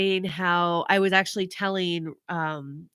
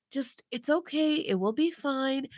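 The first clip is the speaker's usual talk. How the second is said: gently calm someone who is upset; reassuring; 4 semitones higher, 6 dB quieter than usual. Retold or imitated. Husband soothing his crying wife, reassuring.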